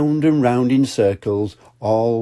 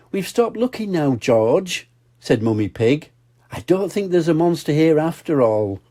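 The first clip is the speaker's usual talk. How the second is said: Mummy Pig; 6 semitones higher than usual. Acted.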